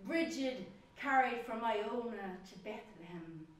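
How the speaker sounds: slow, measured poetry reading; poem recital. Acted. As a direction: recite it slowly, pausing after each image. Recites own poem Bridget.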